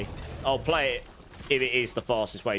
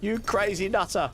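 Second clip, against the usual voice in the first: playful teasing; 9 semitones higher than usual. Real, not acted. Teasing a chatter after shock.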